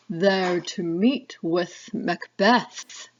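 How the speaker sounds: slow, eerie witch voice; drawn-out crone prophecy; third witch. Acted. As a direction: foretell it like a hag. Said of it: "introduce you to the three witches".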